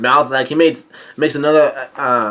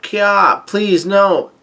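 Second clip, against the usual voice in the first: high-pitched mock shriek, pleading; retold cry of alarm; 6 semitones higher, much slower than usual. Chiffon yells out as Oven grabs her, mock alarmed cry. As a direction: plead in a high, hammed-up squeal. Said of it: "Chiffon yells out".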